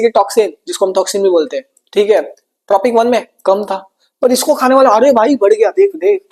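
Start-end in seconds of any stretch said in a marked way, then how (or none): 4.2-6.3 excited exclaim. Acted. Teacher exclaims as the toxin grows.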